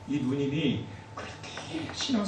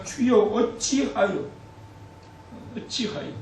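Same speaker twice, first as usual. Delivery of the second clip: very slow, drawn-out lament; 길게 늘이며 한탄하듯; 5 semitones higher, slower than usual. Acted. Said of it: "이런 탄식이 나오지 않습니까". (코로나 사태를 보며 하나님께, 느린 탄식)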